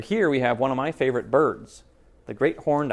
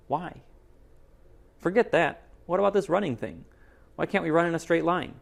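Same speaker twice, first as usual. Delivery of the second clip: put-on bunny kid questioning the rules, a bit raised; lightly voiced young bunny; 3 semitones higher, 3 dB louder than usual. Reader voicing a bunny puzzling over mom's rules, lightly raised. Bunnies talking in a book.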